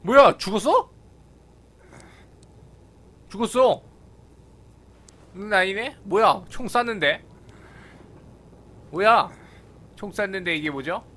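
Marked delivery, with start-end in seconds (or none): none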